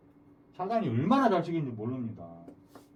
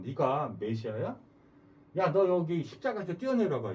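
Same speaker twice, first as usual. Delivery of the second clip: mocking taunt. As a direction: imitate a crowd taunting someone to prove himself. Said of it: "조롱한".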